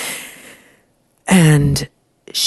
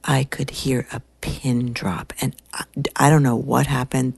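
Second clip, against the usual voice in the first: ordinary talk, nothing marked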